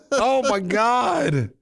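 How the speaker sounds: high, slow, drawn-out oh my God; mock dismay. Real, not acted. Host hearing his voice will age, mock wail.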